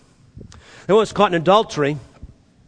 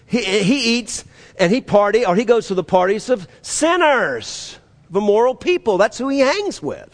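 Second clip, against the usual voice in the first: lightly acted, higher-pitched objection; mock indignation; 4 semitones higher than usual. Religious people complaining about Jesus' company, mock-indignant. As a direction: object as a scandalized religious critic, a little hammed-up.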